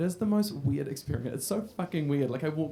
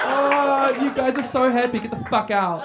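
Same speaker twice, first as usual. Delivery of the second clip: mock bitter dismissal; 7 semitones higher, 6 dB louder than usual. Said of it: "I'm like".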